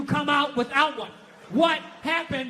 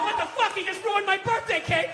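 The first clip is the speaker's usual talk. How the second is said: mock outrage; 3 semitones higher than usual. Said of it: "and I went".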